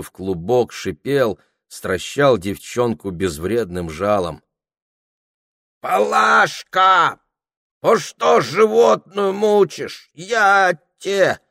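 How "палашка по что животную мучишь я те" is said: high, loud, slow scolding; threatening old woman. A narrator's reading. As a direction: threaten the girl like a granny. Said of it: "грозилась седая с провалившимся ртом старуха".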